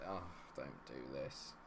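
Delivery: low, soft and slow; despairing plea. Real, not acted. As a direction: plead as hope drains away. Begs the game not to collapse.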